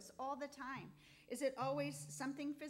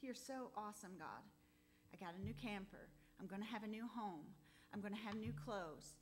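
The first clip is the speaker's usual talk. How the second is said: quiet inner thought; 3 semitones lower, 5 dB quieter than usual. Retold or imitated. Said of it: "I'm thinking to myself".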